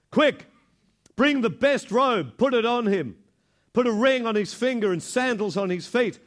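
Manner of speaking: father calling to his servants, thrilled; joyful father. Acted. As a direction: burst out with a father's joy, calling for the feast. Father orders servants to party.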